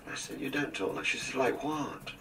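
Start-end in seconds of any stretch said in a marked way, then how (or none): 0.4-1.0 high, soft mock Scottish accent; imitated Scottish accent. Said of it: "talking like this". 1.3-2.1 imitated Scottish accent. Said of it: "Jean would suddenly be talking like this".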